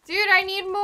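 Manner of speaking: greedy shout. Real, not acted. Greedy gamer craving more loot.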